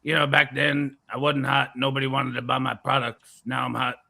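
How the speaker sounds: a hint of rumbling in the back of the voice; lightly put-on impression with long-drawn name; Alex Jones. Product seller grumbling to Vic, lightly voiced rumbling impression. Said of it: "it's a hard voice to do".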